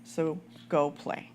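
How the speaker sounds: lightly voiced mom, firm and gentle. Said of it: "I'm gonna put on my mom voice".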